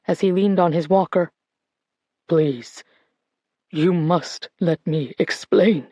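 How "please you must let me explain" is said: slow, low, hushed rasp; a tired old man's slow pleading rasp; rasped plea. Acted. Old man begging Colette to hear him, slow rasp. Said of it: "he rasped".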